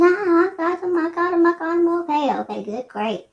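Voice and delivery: high, eager relieved chatter; mock relieved husband; relieved exclaiming. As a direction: imitate him finding what he wanted, pleased. Husband relieved, found cigarettes.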